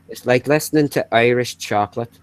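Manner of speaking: Belfast accent impersonation; Rosie. Shown as a demonstration. Likening friend's voice to chocolate, in Belfast accent. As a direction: keep up the Belfast Irish lilt. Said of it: "impersonation of Rosie".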